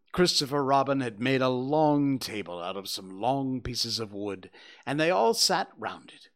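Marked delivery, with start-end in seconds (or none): none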